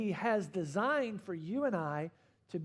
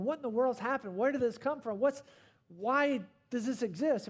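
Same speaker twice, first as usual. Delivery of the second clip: higher-pitched, baffled string of questions; mock bewilderment; 5 semitones higher than usual. Somebody asking why the coronavirus exists, in mock bewilderment. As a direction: act out someone lightly flustered and questioning.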